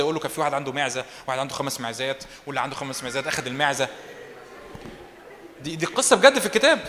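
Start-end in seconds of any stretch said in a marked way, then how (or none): 0.2-3.9 softer, lower parable telling; a soft, understated story voice; gentle storytelling. Acted. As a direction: tell the tale gently, as a prophet easing in. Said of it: "يحكي له قصة كده".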